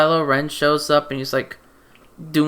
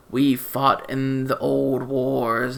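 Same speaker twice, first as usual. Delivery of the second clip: lightly voiced solemn officer, slow; a hint of a pompous old general, drawn out; mock grave general; 2 semitones lower, slower than usual. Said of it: "he's like".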